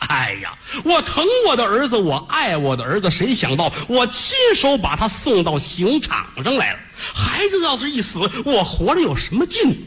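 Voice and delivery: high, crying lament rising to despair; mother's lament. Acted. Grieving mother cries out before killing herself, high tearful lament. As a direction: wail out her grief before dying. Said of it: "这眼泪哗哗的".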